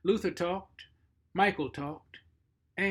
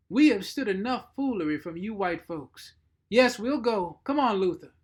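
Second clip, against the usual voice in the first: louder, higher, belligerent servant; angry cook; 5 semitones higher, 8 dB louder than usual. Acted. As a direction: bark it out, fed up. Mattie's angry speech.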